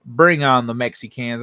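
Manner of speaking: "Bring" punched loud at the start; quoting a viewer with a loud kickoff. Retold or imitated. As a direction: call "Bring on the Mexicans" out like an announcer. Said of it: "I heard".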